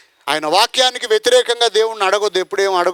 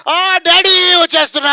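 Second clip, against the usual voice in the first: put-on high, louder, gleeful child's reply; jumping for joy; 10 semitones higher, 6 dB louder than usual. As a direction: sound like a kid thrilled to go home. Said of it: "ఎగిరి గంతేసి". (ఎగిరి గంతేసే సంతోషంతో, ఎక్కువ స్వరంతో)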